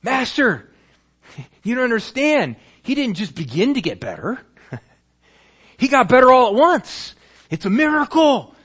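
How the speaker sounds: high, loud, laughing excitement; can barely contain the joy. Acted. Servants laughing as they tell the father of the miracle. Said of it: "the laughter increases".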